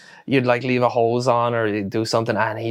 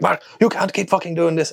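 mock screaming farmer; 7 semitones higher than usual. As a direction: imitate an exasperated farmer complaining. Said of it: "he started screaming down the phone".

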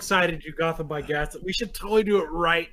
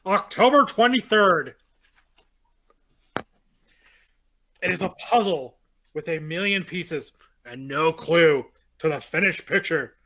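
dramatic reading. Acted. Reads the book's diary entries.

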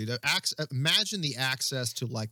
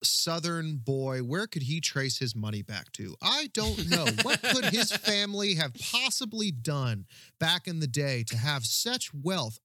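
mock naive wonder; 2 semitones higher than usual. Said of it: "I was like".

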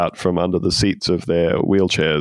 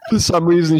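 laughing; 10 semitones higher, 3 dB louder than usual. Real, not acted. Podcaster repeating the absurd detail, laughing. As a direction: still giggling, pitched up.

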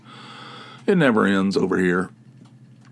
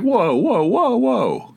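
high, wailing mock protest; retold protest; 3 dB louder, slower than usual. Speaker objecting to being called idiot, high mock protest. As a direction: call for a halt, pitched way up.

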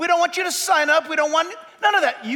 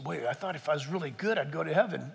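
naive believer; 10 semitones lower, 10 dB quieter, faster than usual. Retold or imitated. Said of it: "You say".

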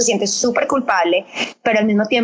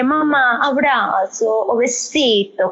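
put-on toddler voice; 2 semitones higher, much slower than usual. Toddler offering mom a hug when she looks sad, slow little-girl voice. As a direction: coax mom with a sweet toddler voice.

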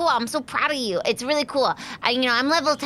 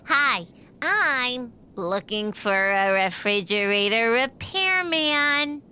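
prank caller; 2 semitones lower, much slower than usual. Acted.

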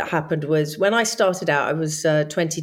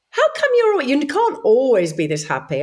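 incredulous people; 5 semitones higher than usual. Retold or imitated. People questioning her happiness, mock incredulous. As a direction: mimic people doubting your happiness. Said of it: "They'll just say".

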